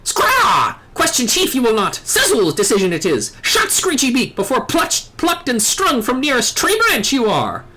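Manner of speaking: lightly voiced squawking bird-man; a hint of a proud little bird creature; Ixal bird voice. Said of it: "do all the Ixal voices like this".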